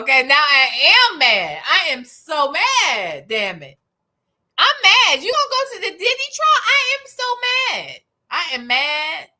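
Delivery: loud, high, hammed-up fury; mock outrage. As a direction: rant in exaggerated pretend anger, climbing high. Pretends to be furious about trip.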